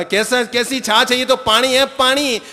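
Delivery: high, loud protest at the watery drink; indignant complaint. Retold or imitated. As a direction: sputter in outrage. देवर पानी देख भड़कता है. (देवर गुस्से में, ऊँची आवाज़ में)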